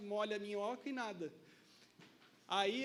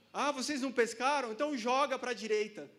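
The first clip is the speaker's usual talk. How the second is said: Jesus voiced; 4 semitones higher, 5 dB louder than usual. Jesus voiced telling disciples.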